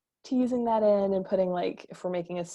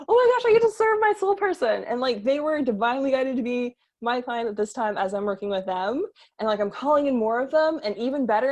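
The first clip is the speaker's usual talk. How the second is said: higher, bubbly rush of thanks; lightly hammed-up, thrilled, raised-pitch delight; excited gratitude; 4 semitones higher than usual. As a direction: gush like someone blessed by their clients. Voicing a grateful excited coach.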